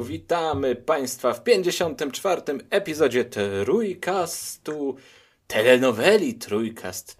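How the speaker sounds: upbeat show opening; podcast host intro. Acted. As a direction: announce it like a host.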